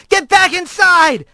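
high, stretched-out warning yell; urgent yell. A narrator's reading. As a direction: yell it to protect someone. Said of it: "he yelled".

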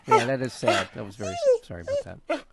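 breaking into laughter mid-apology; laughing. Real, not acted. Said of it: "Mahler was laughing".

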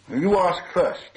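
high, loud, drawn-out reply; eager hobbit. A narrator's reading. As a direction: push the turn back, high and slow. Hobbit hurriedly hands over first turn.

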